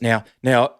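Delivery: imitating a flustered boss on the phone; panicky producer. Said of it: "panic tone in his voice".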